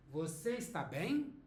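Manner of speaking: "bem" rising as a question; question intonation. Shown as a demonstration. Teacher models the Portuguese question for learners, question intonation. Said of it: "Pay attention to the intonation".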